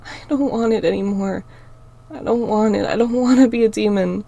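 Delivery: tearful, rising denial; still crying. Acted. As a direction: plead through tears. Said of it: "I cried out".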